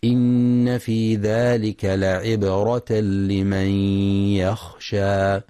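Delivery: slow, melodic tajwid chanting; Quran recitation. Shown as a demonstration. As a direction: chant the verse slowly, drawing out the vowels. Recitação do versículo.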